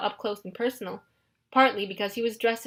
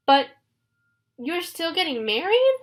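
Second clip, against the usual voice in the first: higher, wounded question; hurt; 7 semitones higher, 4 dB louder than usual. A narrator's reading. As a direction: ask with hurt feelings. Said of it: "Grover sounded hurt".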